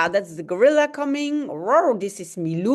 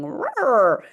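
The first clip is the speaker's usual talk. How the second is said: dog bark roar; 3 semitones higher than usual. Acted. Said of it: "he's barking".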